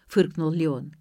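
ordinary delivery, nothing marked

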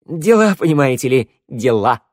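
breezy evasive. Acted. Kobzar breezily dodging.

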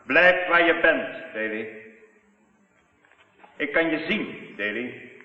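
slow, menacing threat. Acted. Villain threatens Ken in the dark dance hall, menacing. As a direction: threaten him slowly from the dark.

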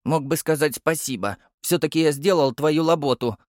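put-on child voice, huffy and put out; indignant puffing. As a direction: puff indignantly. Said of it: "возмущённо пропыхтел я".

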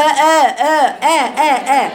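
آ with a moderately open a; moderate hamza. Shown as a demonstration. Teacher correcting a student's hamza, moderate. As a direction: say آ evenly open, not too wide. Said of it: "آ باعتدال".

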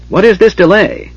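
high, piercing dragon demand; shrieking dragon. Acted. Dragon shrieking at the Draconians, high and wailing. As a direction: screech it like a wailing wind.

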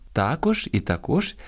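також first stressed on ТА-, then on -КОЖ; double stress. Shown as a demonstration. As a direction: show both stresses of також, first syllable then second. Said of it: "мають подвійний наголос". (два наголоси: також на першому, потім на другому складі)

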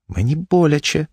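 high, plaintive whimper; pained wife. A narrator's reading. Wife answers her angry husband, plaintively. Wife complains of pain again.

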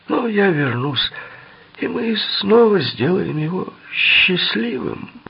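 high, slow, whiny henchman voice; creepy sing-song menace, pitched high; sinister henchman. Acted. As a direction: draw it out high with mock pity.

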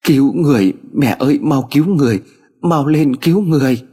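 high, urgent cry for help; hint of tearful urgency; desperate pleading. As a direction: beg mother to save someone, pitch up. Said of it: "òa lên khóc dữ dội hơn".

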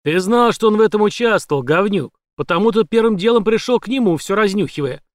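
громко, зло обвиняет; наседает с угрозой; злая речь. A narrator's reading. Злой допрос под пистолетом. (злобный допрос)

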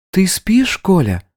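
the bride coolly reminding him of the terms; bright-eyed schemer laying down the rules; scheming bride. Acted. Bride calls into the room.

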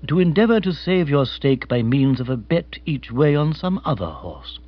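lightly voiced formal butler; measured, deferential manservant. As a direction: advise with polite, unhurried care. Jeeves's measured advice to sir and lady.

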